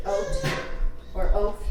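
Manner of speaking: oat or oath, each one syllable with a long O; long O sound. Shown as a demonstration. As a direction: give "oat" and "oath" an O vowel, no V. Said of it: "it just makes an O sound".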